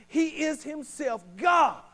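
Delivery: full-voiced preaching climax; slow shouted declaration. Real, not acted. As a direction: shout it out slowly.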